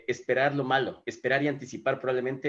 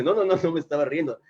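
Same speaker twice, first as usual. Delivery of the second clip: mock protest, higher and louder; quick repeated no's, raised voice; lightly acted insistence on innocence; retold denial; 4 semitones higher, 5 dB louder than usual. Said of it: "Le dice".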